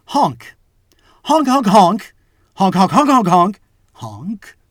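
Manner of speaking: loud high clown honks; silly clown honking. Acted. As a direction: honk like a clown horn. Clown answers question with honks.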